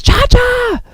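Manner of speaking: high, drawn-out cry of a name; calling out. Acted. Yuji calls to Cha-Cha as he races in, calling out.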